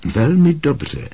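drawn-out, pleased teacher's praise; smiling praise. A narrator's reading. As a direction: praise a pupil with a smile. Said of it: "pochválil ho s úsměvem Lupín".

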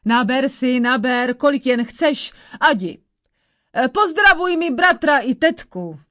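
put-on old crone musing, then fussing over her guest; old witch.

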